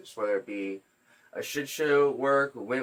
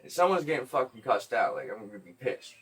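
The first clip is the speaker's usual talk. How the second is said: louder, higher warning that settles down; retold serious warning; 5 semitones higher, 4 dB louder than usual. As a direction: warn him half-seriously, easing off at the end. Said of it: "I wanna be, like, serious".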